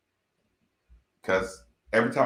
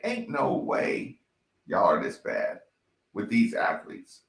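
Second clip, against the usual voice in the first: quoting the commentators; 7 semitones lower than usual. Retold or imitated. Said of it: "They sound like me trying to say".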